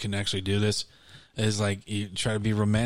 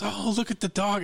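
high-pitched imitation of a woman; imitating her; 10 semitones higher than usual. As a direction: mimic her cooing over a dog. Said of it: "she goes".

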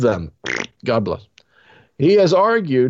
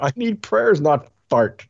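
hammed-up churchgoer complaint; mock woman voice; 2 semitones higher than usual. Repeats woman's line.

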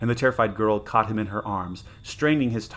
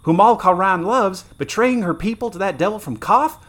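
much higher and louder, crying out; anguished soldier; 10 semitones higher, 6 dB louder than usual. Acted. Wounded soldier crying out at his queen's betrayal, anguished. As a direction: wail it like a betrayed guardsman. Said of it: "like one still stunned by some monstrous".

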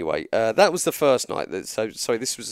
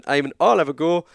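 Irish impression. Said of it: "Good, good impression".

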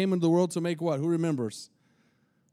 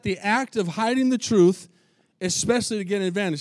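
louder emphatic repeat; 2 semitones higher than usual. Shown as a demonstration. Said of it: "So did y'all hear that?".

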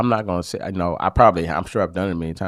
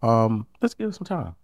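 calm, not upset; 4 dB quieter than usual. Shown as a demonstration. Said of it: "The best way I can do it without being upset".

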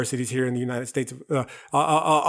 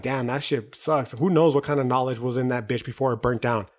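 mildly downcast, a touch softer; sad; 4 semitones lower, 4 dB quieter than usual. Retold or imitated. Recalling youthful grief over the burnt library of Alexandria, mildly sad. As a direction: let it sag softly in mild regret. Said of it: "get sad".

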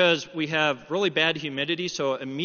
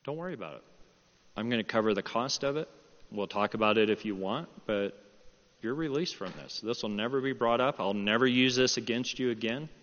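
lower-pitched, gentle assurance; reassuring father; 5 semitones lower than usual. Retold or imitated. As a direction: calmly let him off the hook. Father releasing son from the debt.

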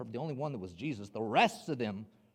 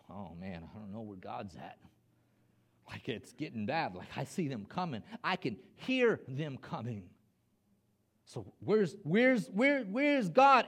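mounting doubt; 3 dB louder than usual. Acted. Israelites hearing the army come, worry building to alarm.

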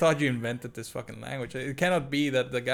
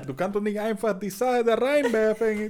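laughing protest; 10 semitones higher, 7 dB louder than usual. Real, not acted.

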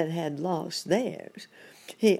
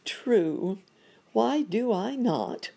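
high, deliberate character voice; higher, drawn-out question; put-upon monkey doctor; 8 semitones higher, 4 dB louder, slower than usual. Acted. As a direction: answer as a stuck, harried monkey.

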